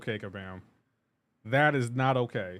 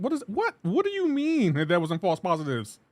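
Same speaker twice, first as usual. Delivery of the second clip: incredulous; 5 semitones higher than usual. Real, not acted. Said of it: "incredulous reaction".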